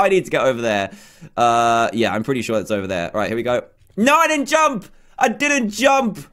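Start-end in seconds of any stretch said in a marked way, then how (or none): 4.0-6.2 high-pitched, indignant protest; frustrated high cry; exasperated protest. Real, not acted. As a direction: protest the unfair miss, pitch jumping up. Protests a failed jump.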